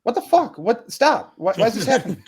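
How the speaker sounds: high, frantic mock panic; panicked disbelief. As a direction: squeal it like everything's collapsing. Acting panicked inner monologue.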